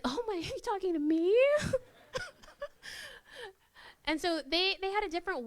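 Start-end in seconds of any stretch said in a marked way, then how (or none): 0.0-1.7 higher, louder, laughing through it; flattered giggle. Retold or imitated. Flattered shopper answering a salesperson, giggling high. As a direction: giggle as if the compliment caught you off guard. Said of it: "And I was like".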